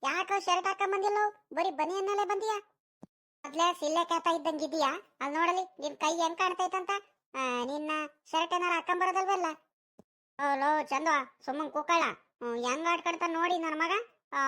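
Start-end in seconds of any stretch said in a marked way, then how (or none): 0.0-9.5 a lightly raised voice for the mocking friend; a hint of a cheeky village friend; teasing friend. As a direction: rib your buddy about his vest. One actor plays teasing friend.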